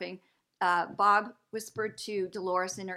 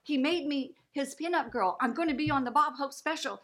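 excited insistence; 5 semitones higher, 4 dB louder than usual. Retold or imitated. Insisting to doubting husband.

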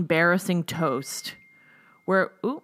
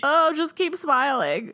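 higher, slowed, sugary mock coo; a gentle hint of a doting suitor; imitating Mike; 9 semitones higher, slower than usual. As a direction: lightly play the smitten man. Imitating Mike's doting talk.

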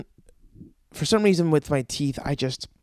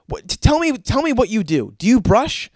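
higher, insistent dentist interrogation; exasperated questioning; 4 semitones higher, 3 dB louder than usual. Acted. Dentist asking the patient about brushing, exasperated mock demand.

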